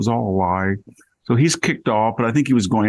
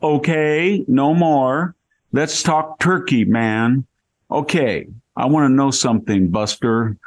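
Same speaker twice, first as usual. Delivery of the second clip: put-on high, slow, drawn-out Valley Girl voice; Valley Girl impression; 5 semitones higher, slower than usual. Imitating the Chinese consul for the host, high hammed-up Valley Girl voice. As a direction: pitch way up and stretch out the okay like a Valley Girl. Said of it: "want to hear you imitate her".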